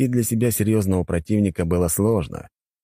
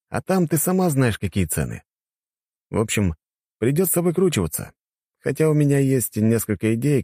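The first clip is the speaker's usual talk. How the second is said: higher, knowing, slowing at the end; knowing hero; 5 semitones higher than usual. Acted. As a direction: drag out the last words knowingly.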